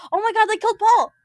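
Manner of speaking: high, loud shocked cry; mock horror. Mock horror at Paul's fall.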